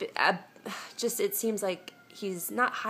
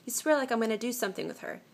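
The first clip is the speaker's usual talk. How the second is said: higher, quick, mildly indignant retelling; mock-angry boyfriend quote; 6 semitones higher, faster than usual. Reads out the boyfriend's jealous accusation from a viewer's letter, mock-angry. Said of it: "he gets super mad and says".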